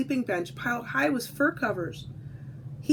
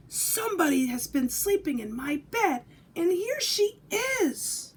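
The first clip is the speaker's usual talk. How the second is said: put-on baby bear squeal; 6 semitones higher than usual.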